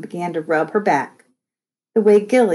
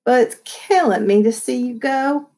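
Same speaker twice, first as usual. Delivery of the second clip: high, broken, tearful plea; voice breaking; 5 semitones higher than usual. Acted. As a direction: let the voice crack into squeaks. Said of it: "her huge bass voice broke up into little squeaky pieces".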